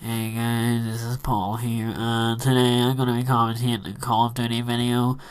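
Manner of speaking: lightly imitated blocked-nose voice; stuffed-up nose. Vlogger mimicking his awful first commentaries, lightly stuffed-up. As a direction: talk as if your nose is stuffed up, a touch monotone. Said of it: "as if my nose was permanently stuffed up".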